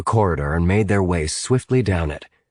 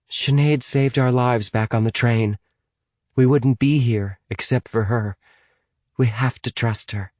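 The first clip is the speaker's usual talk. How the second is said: lightly voiced higher girl, pleading a case; earnest Amy; 5 semitones higher than usual. Amy defending Sinead to Hamilton, earnest. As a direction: vouch for her earnestly, pitched higher.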